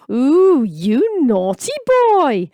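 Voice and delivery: high, loud slow camp squeal; camp shriek. A narrator's reading. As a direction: ham up a camp shriek like a seventies comedy. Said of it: "the first man screamed".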